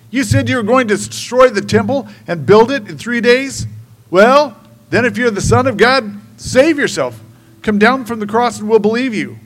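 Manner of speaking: loud, high taunting shout; mocking shout. Passersby shouting a mocking dare at crucified Jesus. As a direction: hurl the dare at him with contempt. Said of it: "they shouted abuse and ... mocking".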